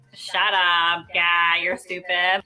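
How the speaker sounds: "ga" with a long, stretched a; mock put-down with a drawn-out "ga"; accentuated vowel. Shown as a demonstration. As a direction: lean on the a in "ga", dragging it out. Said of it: "You have to accentuate the a".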